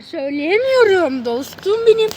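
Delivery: talking with gum in mouth; slowed words around chewing gum. Real, not acted. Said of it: "Ağzımda sakız var".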